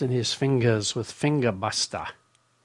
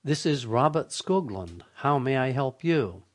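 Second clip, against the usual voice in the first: slow robotic answer. Shown as a demonstration. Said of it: "I say very slowly".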